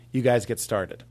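"You guys get started" in a relaxed Boston accent. Shown as a demonstration. Vocal coach demonstrating a Wahlberg Boston accent. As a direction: model the Wahlberg line Boston-style. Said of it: "touchstone for Wahlberg".

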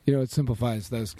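tired, fading voice; voice giving out. Real, not acted. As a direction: speak as your voice gives out. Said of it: "I'm, like, losing my voice".

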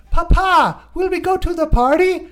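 put-on high, eager little-girl voice; migrant's daughter. Little girl asking her papa about the party, high hammed-up child voice. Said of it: "his daughter's like".

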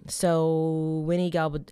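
loud, trembling voice; shaking voice. Real, not acted. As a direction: voice shaking from the cold. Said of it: "I'm sorry if my voice is shaking".

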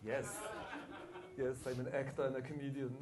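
German accented, a hint of Arnold; lightly voiced Schwarzenegger accent; Schwarzenegger impression. Guest answering the host in a mock Schwarzenegger accent. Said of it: "that was both language and a Schwarzenegger impression".

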